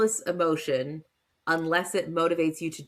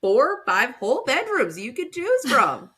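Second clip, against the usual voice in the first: mock-indignant mom; 6 semitones higher than usual. Teasing mom voiced as parent.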